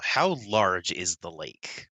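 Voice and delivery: slow, puzzled character question; clueless character. Acted. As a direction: ask it slowly, totally clueless. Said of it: "this is Maddox not knowing Chicago at all".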